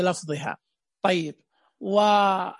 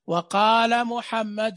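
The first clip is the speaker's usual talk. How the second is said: slow model reading; much slower than usual. Shown as a demonstration. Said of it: "التعليم بالتلقين".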